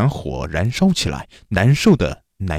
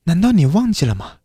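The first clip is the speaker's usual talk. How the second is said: lightly voiced demon woman, higher pitch; higher pitched, drawing out the final words; demon claiming a soul; 8 semitones higher than usual. A narrator's reading. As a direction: claim what is yours as the demon.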